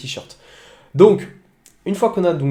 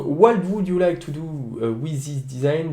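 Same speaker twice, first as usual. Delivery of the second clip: English read out with a French accent. Real, not acted. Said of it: "Désolé pour mon accent anglais". (anglais avec un accent français)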